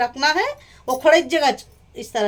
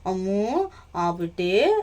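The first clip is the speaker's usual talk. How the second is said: mild sweet-talking; 4 semitones lower, much slower than usual. Retold or imitated. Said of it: "इतना महंगा मस्का लगाती है".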